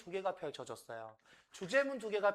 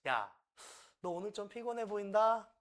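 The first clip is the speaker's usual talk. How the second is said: casual observation; 5 semitones higher than usual. Shown as a demonstration. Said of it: "이거예요".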